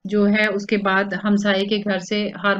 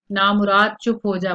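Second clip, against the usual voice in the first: scolding call; 4 dB louder than usual. Acted. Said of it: "वहीं बैठे बैठे उसको बोल देती है".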